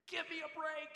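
high-pitched mock exasperation; exasperated grumbling. Driver stuck in a long McDonald's line, exasperated grumbling.

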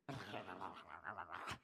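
Donald Duck-like grumble noise; wordless grumbling. Shown as a demonstration. Preacher imitating the Hebrew word for grumbled, grumbling noise. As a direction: sputter out a muttered, wordless grumble. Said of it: "sounds like grumbling. It's like".

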